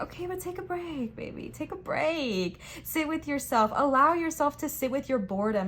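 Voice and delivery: soothing spirit guide voice; gentle spirit guides. Retold or imitated.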